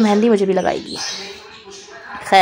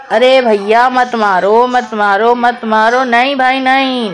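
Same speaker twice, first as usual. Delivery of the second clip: drawn-out, repetitive mock plea; mock pleading; slower than usual. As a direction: plead slowly, stretching each appeal to stop. Re-enacts pleading with fighting cats. (बनावटी मिन्नत, खींच-खींच कर)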